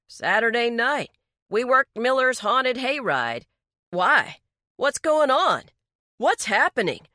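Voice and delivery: shrill panic. Acted. Daryl panics at the police questions, voice rising shrill. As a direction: voice climbing into alarm. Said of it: "His voice turned shrill".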